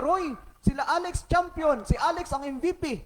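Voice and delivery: mother proudly sharing the news; excited. Retold or imitated. Mama tells Tito Roy the news, lightly excited. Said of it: "excited si Mama".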